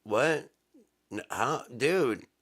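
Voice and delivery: high, loud cry of disbelief; shocked disbelief. Acted. Man told he has one dad, crying out high and loud in shock. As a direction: blurt it out stunned.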